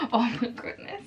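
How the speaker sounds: awed, with a little laugh; awed reaction. Real, not acted. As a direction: take it in with quiet amazement. First reaction on seeing palette.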